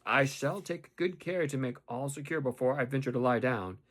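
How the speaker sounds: deliberate weight on "I shall take good care"; emphatic resolve on "shall take good care"; marked stress. A narrator's reading. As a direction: stress "I shall" as a pointed warning. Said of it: "I laid marked stress on the words".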